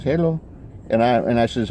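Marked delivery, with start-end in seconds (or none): 0.0-0.4 higher-pitched, badly faked Mexican accent; rough Mexican accent. Stranger greets the musician back, badly faked Mexican accent. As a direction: imitate a Mexican man's hello, loosely accented. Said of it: "how to do a good Mexican accent".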